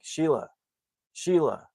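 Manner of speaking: imitating someone calling for attention; seeking attention. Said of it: "trying to get the attention".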